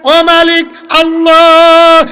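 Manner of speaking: drawn-out chanted call. Retold or imitated. Adam calls on his Master, calling out. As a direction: call to the Master, stretching the last word. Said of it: "ডাক দিয়ে কয়".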